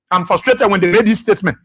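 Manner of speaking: words tipping into a real laugh. Real, not acted. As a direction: start to crack up while talking. Breaks into laughter.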